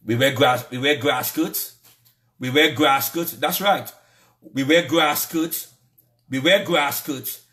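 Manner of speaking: slow, mocking repetition; bitter sarcasm. Real, not acted. Vlogger mocking outsiders' view of locals, slow bitter sarcasm. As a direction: drag it out, sneering at how they see us.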